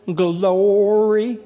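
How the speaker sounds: high, drawn-out churchy praise; mock praise. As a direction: gush it like an eager believer. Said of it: "run up to you and say".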